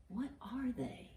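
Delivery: soft whispered question. Acted. Grandma whispering the riddle question to the kids. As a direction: hush it like a secret.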